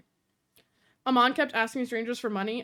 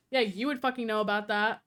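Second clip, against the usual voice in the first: a pointed, lightly sneering jab; snide retort; 3 semitones lower than usual. Retold or imitated. Mimicking the friend's dinner jab, mock snide. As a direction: lean on the dig like she meant it. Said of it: "That's how she said it".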